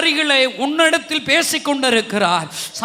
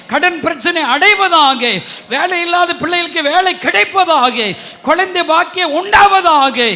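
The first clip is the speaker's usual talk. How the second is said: loud, building intercession with slowed phrases; fervent prayer; 3 semitones higher, 5 dB louder than usual. Real, not acted. Pastor praying over the congregation, loud and fervent. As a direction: pray over them with rising force.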